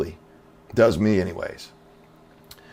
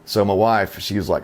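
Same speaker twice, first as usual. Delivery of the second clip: ordinary talk, nothing marked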